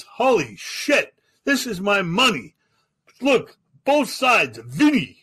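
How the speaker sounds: high, drawn-out astonishment; hammed-up disbelief, high and punchy; mock amazement. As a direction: marvel slowly at each discovery, pitch way up. Imitating mobster amazed at his bill.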